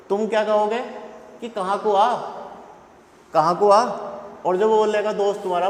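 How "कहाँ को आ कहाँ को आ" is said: urgent shout. Retold or imitated. Friend called urgently in a fight.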